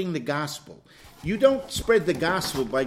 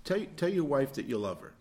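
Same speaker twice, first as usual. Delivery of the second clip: counselor instruction; 3 semitones lower, 6 dB quieter than usual. Retold or imitated. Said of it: "I'll say".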